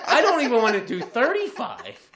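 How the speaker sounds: hammed-up fearful objection; mock panic. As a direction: protest like a scared driver. Acting out fear of speed limit.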